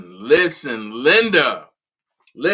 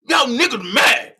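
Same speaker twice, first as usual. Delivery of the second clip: Bubba Dub voice; 4 semitones higher, 5 dB louder, slower than usual. Pretend. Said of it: "get in my Bubba Dub voice".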